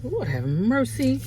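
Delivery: slow, choked-up sigh to the Lord; tearful plea. Real, not acted. Mother fighting tears while recalling daughter, choked. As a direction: hold back tears as you pray.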